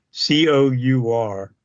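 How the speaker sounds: C O U R said letter by letter; each letter of C O U R named separately; spelled out. Shown as a demonstration. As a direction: spell C O U R one letter at a time. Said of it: "I don't know how, how to pronounce".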